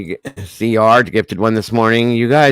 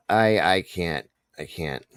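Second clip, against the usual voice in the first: much softer, choked up; overwhelmed hush; 6 dB quieter than usual. Real, not acted. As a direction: barely get the words out. Overwhelmed by gifts.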